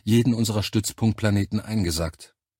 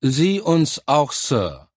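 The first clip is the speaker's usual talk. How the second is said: slow, higher-pitched dutiful response, falling away on Sir; tired chorus reply; 5 semitones higher, 4 dB louder, much slower than usual. A narrator's reading. Recruits answering their officer in chorus, mildly tired. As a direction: answer as a weary troop in unison. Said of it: "erklang es müde im Chor".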